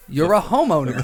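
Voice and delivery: put-on Boston accent. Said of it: "Again, with the accent".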